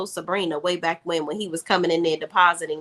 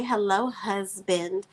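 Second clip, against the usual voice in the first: bad acting; 4 dB quieter, much slower than usual. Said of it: "Her terrible acting act".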